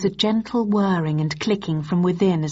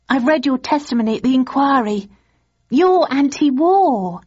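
put-on young woman voice; 7 semitones higher, 4 dB louder than usual. Girlfriend voiced in story.

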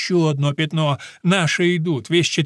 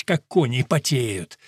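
ordinary delivery, nothing marked

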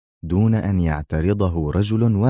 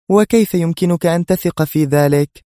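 higher, louder astonished question; surprised; 11 semitones higher, 5 dB louder than usual. Acted. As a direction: ask in disbelief. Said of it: "سألته في دهشة". (بدهشة واضحة)

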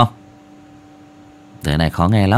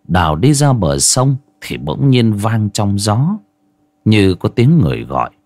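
story narration. Acted. Reads ghost story.

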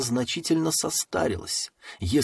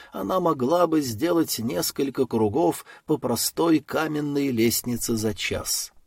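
ordinary delivery, nothing marked

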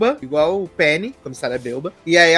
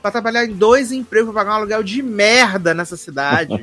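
mocking, lightly voiced whiny complaint; higher-pitched nagging impression, slightly exaggerated; Jenna Ortega; 4 semitones higher than usual. Mocking Tara's argument with her sister, whiny imitation. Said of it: "É uma vozinha de taquara rachada".

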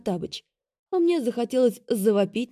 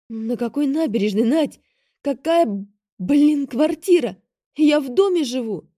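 higher, louder exasperated outburst; indignant; 6 semitones higher, 6 dB louder than usual. A narrator's reading. Vika snapping at her sister, exasperated. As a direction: protest that nothing makes sense.

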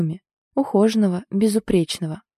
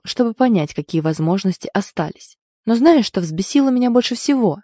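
louder, bitter accusation; angry, bared teeth; 3 dB louder than usual. Acted. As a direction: snarl out the grievance. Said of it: "он ощерился". (злобно, оскалившись)

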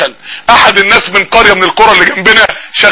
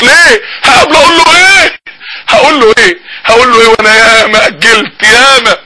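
tearful preaching; 3 semitones higher than usual. Acted. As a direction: plead with the congregation about meeting God. Preaches with rising emotion. (وعظ حماسي باكي)

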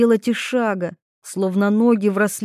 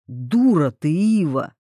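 without malice; 4 semitones lower, slower than usual. A narrator's reading. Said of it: "беззлобно сообщил Тарас".

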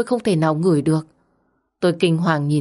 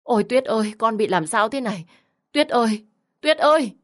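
panicked mother crying out, higher and building to a shout on the last call; trembling cry; 5 semitones higher than usual. Acted. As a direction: call her name in rising alarm until it breaks into a yell. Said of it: "Bà run rẩy kêu lên".

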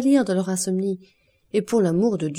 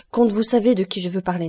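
urgent exclamation; 5 dB louder than usual. Acted. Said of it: "s'écria".

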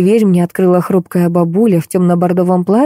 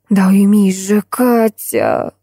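groaning plea; 2 semitones higher, much slower than usual. Acted. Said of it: "простонала Крылова".

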